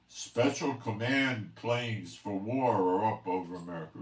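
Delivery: mock alarm report. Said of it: "I mean, you know".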